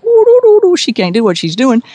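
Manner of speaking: mock spooky psychic sing-song. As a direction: tease like a fake psychic humming. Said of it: "Katrina's think I'm going like".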